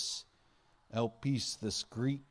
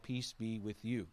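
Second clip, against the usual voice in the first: soft, calm blessing; quiet and kind; gentle greeting; 4 dB quieter than usual. Pretend. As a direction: speak peace to frightened friends. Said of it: "No, Jesus said".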